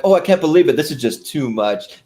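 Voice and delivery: Ed Grimley impression. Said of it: "He's like".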